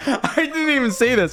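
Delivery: high-pitched, laughing through the words. Real, not acted. Host stumbling on an unseen tweet, laughing. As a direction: say it while cracking up.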